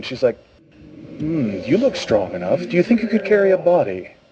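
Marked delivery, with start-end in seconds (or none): 1.2-4.0 sugary, sweet, honeyed voice. Voicing a woman who asks a player to carry a body: sweet smiling voice. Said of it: "She kind of smiles sweetly".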